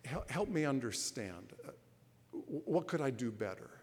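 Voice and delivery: soft, patient question; gentle voice. Acted. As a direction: defuse the anger with calm gentleness. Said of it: "gentle voice".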